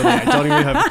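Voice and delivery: laughing while talking. Real, not acted. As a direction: talk through the laughter. Laughing at her own ignorance.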